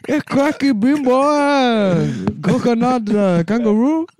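very high, hammed-up accent; Australian African accent. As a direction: ham up a silly accent. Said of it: "Australian African".

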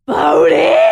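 sudden shout at the dog. Retold or imitated. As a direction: yell the dog's name. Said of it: "retelling her yelling at dog".

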